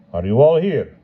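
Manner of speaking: lightly voiced haughty hetman, drawled through the nose; a hint of lordly boredom; nasal drawl. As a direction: hetman checking on the Cossacks, drawling. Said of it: "he asked with a drawl, pronouncing the words slightly through his nose".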